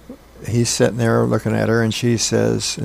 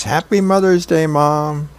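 put-on excited kid; 5 semitones higher than usual. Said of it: "Hammy rushing up to Mom and says".

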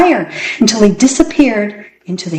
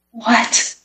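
whispered; 3 semitones higher, 5 dB quieter than usual. Acted. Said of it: "whispered Alan".

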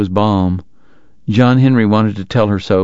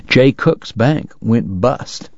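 a hint of an old man sharing gossip; doctor turns to the boy with the bank news, slowly; lightly voiced doctor; 2 semitones higher, much slower than usual.

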